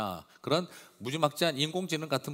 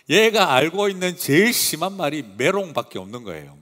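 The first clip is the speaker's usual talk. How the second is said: ordinary talk, nothing marked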